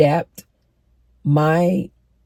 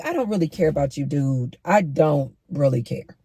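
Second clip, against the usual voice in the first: dismissive; 4 dB quieter than usual. Retold or imitated. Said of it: "I'm like".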